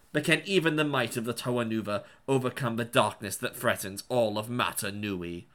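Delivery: lightly dramatic trailer narrator; movie trailer voice. Acted. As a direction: read it like an epic toy ad. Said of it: "It's my Bionicle trailer voice".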